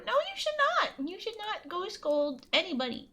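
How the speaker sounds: high-pitched protest easing down; exasperated high refusal; emphatic forbidding. Real, not acted. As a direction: jump up high to forbid it, then settle. Scolding chat's joke plan.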